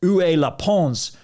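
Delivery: "Pons" said slowly with the S sounded, as an English speaker would; wrong French Pons. Retold or imitated. Lost rider asking villagers the way, sounding the S. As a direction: ask "Où est la Pons?" voicing the final S. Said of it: "you don't pronounce the S".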